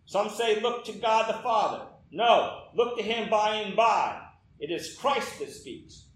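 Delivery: lightly done Essex country preacher; broad Essex accent. Acted. Lay preacher urging sinners to look, light Essex accent. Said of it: "He went on in his broad Essex accent".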